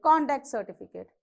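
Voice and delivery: CONduct certificate, weight on CON; "conduct" as a noun, first syllable stressed. Shown as a demonstration. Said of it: "You stress on this".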